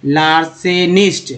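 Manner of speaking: लार्सेनिस्ट said slowly, each syllable clear; slow teacher model; slow demo. Shown as a demonstration. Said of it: "pronunciation demo".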